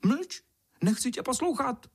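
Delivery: very high squawking cries; very high bird squawk; wailing warbler. A narrator's reading. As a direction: wail out the wrong words.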